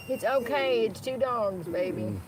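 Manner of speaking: soft, reassuring words to a pet; calm the dog down gently; hushed comfort for a nervous dog; soothing the dog. Real, not acted.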